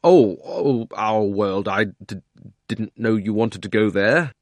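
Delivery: put-on flustered boy stammering out an excuse. Boy caught out by the Queen, stammering. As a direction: trip over the words, caught off guard. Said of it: "got very red in the face and stammered".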